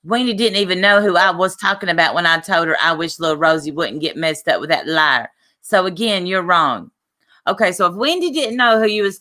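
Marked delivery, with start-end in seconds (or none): 0.0-6.9 mock snotty attitude, quick at the start; asshole attitude. Streamer reading a rival's reply, snotty attitude. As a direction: read it like a know-it-all picking a fight. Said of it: "give her asshole attitude".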